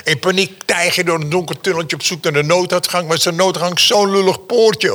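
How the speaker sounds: mock-panicked birth story; dramatic build. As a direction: tell it like a thriller chase.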